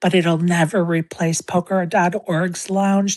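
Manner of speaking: mock whisper. Comparing two lounges so others won't hear: joking whisper. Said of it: "I am just gonna whisper quietly".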